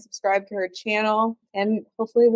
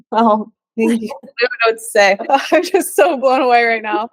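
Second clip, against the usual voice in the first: moved, laughing; 5 dB louder than usual. Real, not acted. Overwhelmed by guest's story.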